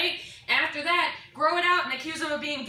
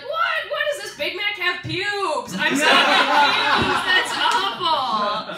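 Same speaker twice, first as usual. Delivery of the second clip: high startled what, then slow louder disgust; high shocked what into disgust; 4 semitones higher, 5 dB louder, much slower than usual. Retold or imitated. Customer opening Big Mac, high shocked then disgusted.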